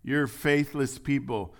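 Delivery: loud, slow damning rebuke; condemning rebuke. Acted. Jesus condemning faithless people, in a loud slow rebuke. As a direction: condemn them with no hope. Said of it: "He's saying".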